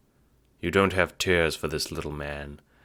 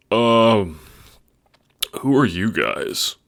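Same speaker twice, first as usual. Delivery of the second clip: confused Dave; 5 semitones higher, 5 dB louder, slower than usual. Acted.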